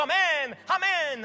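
ringing amen from the crowd; loud, fervent amen. Acted. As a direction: call it out like a whole congregation. Congregation answering the reading.

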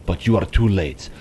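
a hint of a grand game villain; lightly voiced villain. Boss addressing the luchador, lightly voiced villain. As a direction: read it as a menacing boss, lightly.

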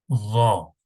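ZA with tongue between teeth, dark a; thick lisped z. Shown as a demonstration. Teacher showing the Arabic letter za, thick and lisped. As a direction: lisp a heavy Za. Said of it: "Kalın".

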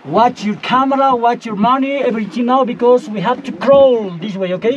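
calling out instructions; urgent warning. Real, not acted. Guide warning before crawling.

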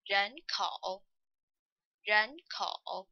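人口 with 口 dipping fully then rising; 人口, the last syllable 口 given its whole dipping tone; complete final third tone. Shown as a demonstration. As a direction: say 人口 with a full fall-then-rise on 口. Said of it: "we still pronounce the complete third tone".

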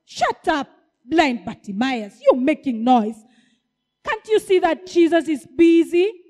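loud annoyed hushing; scolding. Acted. Crowd scolding the blind man, loud and annoyed. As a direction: tell him off sharply. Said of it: "tell him to keep quiet".

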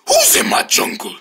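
lightly voiced suspicious bear; a bear sniffing out intruders; prowling bear. Bear discovers travelers in its jungle, suspicious.

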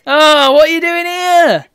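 high, loud, slow put-on witch. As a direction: sneer it like the witch. Voices witch in game.

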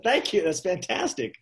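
a high, bursting thank-you that settles on fantastic; overjoyed thanks. Retold or imitated. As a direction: gush your thanks, almost giddy.

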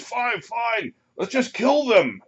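high-pitched, exasperated monster voice; monster's head. Acted. One ettin head agreeing to kill them, high monster voice. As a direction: give in loudly in a high creature voice. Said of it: "One of the heads says".

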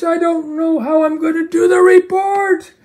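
fed-up yell about the report; frustrated outburst. Acted. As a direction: throw up your hands and shout it. Frustrated puppet complaining.

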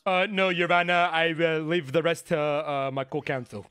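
lightly voiced New York Italian, slow; put-on Italian accent. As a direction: wrap it up in the mock Italian accent, slowly. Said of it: "this accent that you've decided to put".

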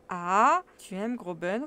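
loud exclamation, said on autopilot; mechanical repeat. Acted. Absent-minded uncle repeating the question mechanically, loud. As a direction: repeat it absently, mind elsewhere. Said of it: "reprit-il machinalement".

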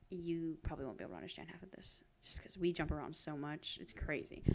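breathy whisper, fast on the first line; whispered aside. Real, not acted. Whispering to viewers that they won't follow the chat. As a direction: lean into the mic and whisper it.

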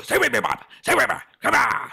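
put-on high coaxing Welsh accent. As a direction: urge him on in Welsh lilt. Keeps Welsh voice, coaxing Bob.

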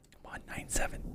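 soft unvoiced urging; whisper, willing it on; tense whisper. Real, not acted.

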